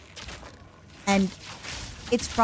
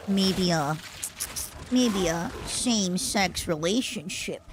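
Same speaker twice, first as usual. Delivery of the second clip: giggly; 5 dB quieter, slower than usual. Real, not acted. Giggling over phrase.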